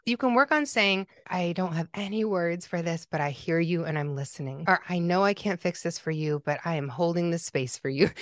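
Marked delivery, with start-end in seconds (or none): 1.3-8.1 tender, unhurried listener's tone; gentle reassurance. Shown as a demonstration. Modeling comforting words to a griever.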